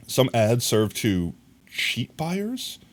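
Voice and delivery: slow questioning read, lifting on buyers; slow puzzled read. Shown as a demonstration. Streamer puzzling over a chat message, slow and questioning. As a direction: puzzle over the words slowly, rising on buyers. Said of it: "What the heck's a cheat buyer?".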